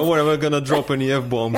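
laughing. Real, not acted.

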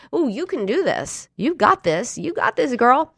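high cheerleading self-talk; pep yourself up like a girlfriend would; peppy self-encouragement. Acted. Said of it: "I encourage myself".

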